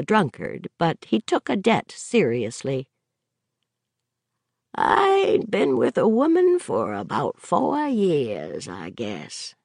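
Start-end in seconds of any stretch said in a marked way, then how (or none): 4.7-9.5 reminiscent. Acted. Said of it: "Gary said reminiscently".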